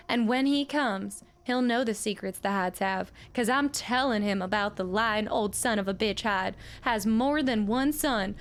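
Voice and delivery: a lightly voiced old widow reading her letter; old widow's letter. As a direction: read it as the bitter old miner's widow. Old woman voice continues.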